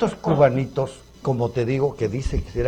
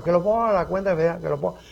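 quick, slightly put-on higher voice; imitating Fidel's followers; 3 semitones higher, faster than usual. One diner after another answering, quick light imitation. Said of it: "imitando al gran Fidel".

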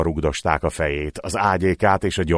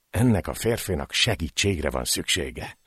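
murmured; 6 dB quieter than usual. Acted. Painted Tongue murmuring alone in the dark, soft. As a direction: murmur it under your breath, worried. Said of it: "hümmögte".

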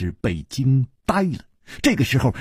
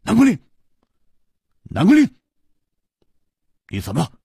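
loud, higher alarmed calls of the name; crying out in alarm; 8 semitones higher, 3 dB louder, much faster than usual. A narrator's reading. Chu Liuxiang seeing his friend poisoned, crying out in alarm. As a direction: cry out his name in sudden shock. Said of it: "楚留香失声说".

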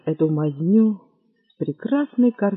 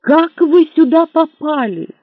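astonished; 10 semitones higher, 7 dB louder than usual. Acted. Astonished question.

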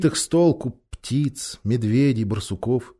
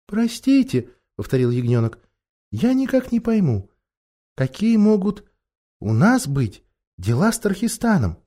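tiny voice; 3 semitones higher than usual. Acted. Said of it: "тоненький голосок".

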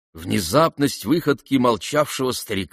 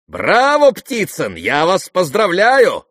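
mocking; 9 semitones higher, 7 dB louder, slower than usual. A narrator's reading. Nastasya mocking Ptitsyn.

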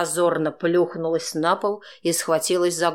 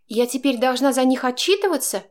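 higher woman's voice, indignant and cutting; Chaika, indignant; 9 semitones higher than usual. A narrator's reading. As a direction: bite the words out in annoyance. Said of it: "процедила она негодующе".

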